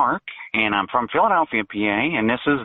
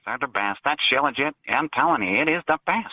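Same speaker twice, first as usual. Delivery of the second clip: fake voice. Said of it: "you're doing a fake voice".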